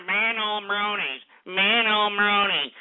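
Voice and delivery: drawled slow caller imitation; mock the prank caller's slow drone. Host mocking a prank caller, slow drawl. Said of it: "we got some idiot calling up and".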